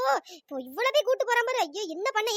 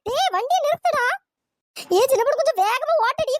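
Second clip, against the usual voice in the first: higher, louder yell of டேய்; furious shout; 3 semitones higher, 4 dB louder than usual. Acted. Wife screaming again at fleeing husband, furious. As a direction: scream டேய் and order him to stop.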